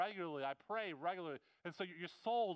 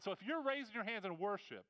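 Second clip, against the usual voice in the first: sarcastic. Acted. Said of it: "I'm being sarcastic here a little bit".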